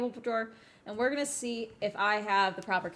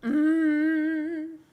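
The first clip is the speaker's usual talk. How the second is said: frustrated hum; 4 semitones higher, 7 dB louder than usual. Real, not acted. Frustrated rant at product.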